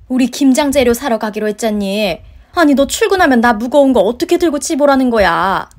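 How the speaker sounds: loud, indignant mother-in-law; indignant scolding. Acted. Mother-in-law scolding her daughter-in-law over forgotten shopping, indignant. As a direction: scold her with rising volume and pitch.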